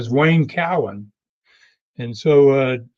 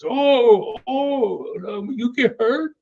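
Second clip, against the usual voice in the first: high, mock-innocent concern; 9 semitones higher, slower than usual. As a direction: ham up fake sympathy, pitched much higher. Dutch mocks injured Roy.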